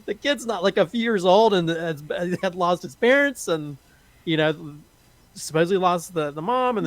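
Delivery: high, breaking into laughter mid-sentence; laughing while choked up. Real, not acted. Reviewer laughing emotionally about the orphaned kid, real laughing. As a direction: laugh through the words, fighting tears.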